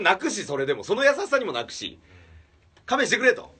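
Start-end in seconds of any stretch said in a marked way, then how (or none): 2.9-3.3 high, loud desperate plea; pleading shout. Retold or imitated. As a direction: beg them to stop at the top of your voice. Begging them to stop. (高く大きな声で懇願)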